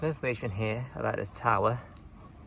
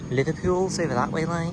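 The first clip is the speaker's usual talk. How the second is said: hammed-up Scouse, pitched higher; bad Liverpool accent; 6 semitones higher than usual. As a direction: have a poor go at a Liverpudlian accent. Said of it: "That's a terrible accent".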